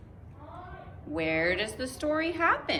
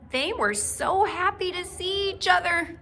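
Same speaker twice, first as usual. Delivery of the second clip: lifted, louder joyful narration; happy storytelling; 8 semitones higher, 5 dB louder than usual. A narrator's reading. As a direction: brighten up for the reunion. Narrator lifts the reunion line.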